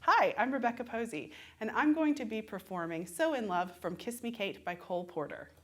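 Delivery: clear, pleasant audition slate; confident introduction. Shown as a demonstration. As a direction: introduce yourself to the panel with practised poise. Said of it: "be confident in your introduction".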